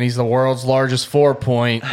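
joking through a laugh. Retold or imitated. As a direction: tease him while laughing. Teasing about deer size.

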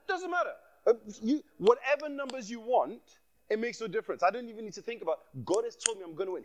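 carefree, sure of the win; cocky retold self. Retold confident self at counter.

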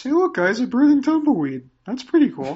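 high, loud excited cultist. Acted. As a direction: squeal it out, thrilled and loud. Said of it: "and Dan says".

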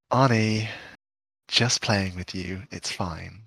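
low, quiet, slow aside; acted soft reassurance. Friend admits the prank to Arnie, softly reassuring. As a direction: let it drop away gently.

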